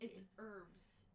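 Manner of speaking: It's herbs, H dropped, said erbs; silent H. Shown as a demonstration. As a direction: herbs starting straight on the vowel. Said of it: "The H is silent".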